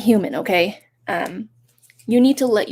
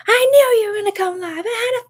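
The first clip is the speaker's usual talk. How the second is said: mock gushing fan; 13 semitones higher, 3 dB louder, faster than usual. Reading out viewer's chat message.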